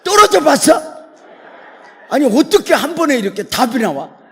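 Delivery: screaming out while falling off a cliff; frantic shout. Acted. Falling man screams up at God, frantic shout. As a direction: yell every word at full force, high and loud.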